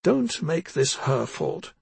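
slow, firm command; firm order. Acted. Grandmother orders her angry son, slow and firm. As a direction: lay down the law to him. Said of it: "Rabia ordered her son".

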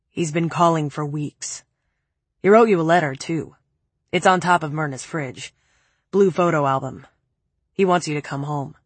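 a hint of a low, cold man. Preppy's cold voice.

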